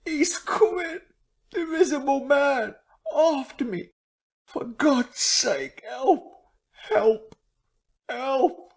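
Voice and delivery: high, frantic pleas for help; terrified shrieking. A narrator's reading. Marvel fleeing the Invisible Man, shrieking for help. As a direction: scream for help in terror. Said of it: "his voice shrieking with terror".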